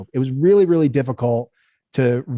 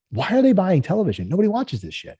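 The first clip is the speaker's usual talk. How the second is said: higher-pitched disbelief; incredulous; 6 semitones higher than usual. Retold or imitated. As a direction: recount a baffled outburst. Acted incredulous thought about buyers.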